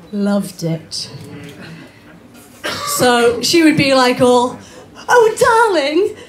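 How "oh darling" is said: high, slow, gushing posh mother; posh mum. Retold or imitated. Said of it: "my mum's a bit posh".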